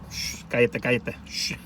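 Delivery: whispered shh, cállate, unvoiced; shushing whisper. Coworker telling him to keep quiet, urgent whisper. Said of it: "he's like".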